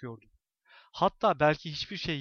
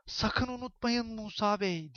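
slow, high, eerie near whisper; 7 semitones higher, slower than usual. A narrator's reading. Old woman leans to his ear, slow eerie whisper. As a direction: breathe it into his ear like a witch. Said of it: "diye fısıldadı sonra".

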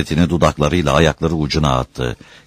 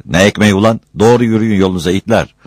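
loud, higher rebuff; angry dismissal; 4 semitones higher, 5 dB louder, faster than usual. Acted. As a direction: send them packing crossly. Refusing bread, insulting the workers. (tersleyerek, öfkeyle)

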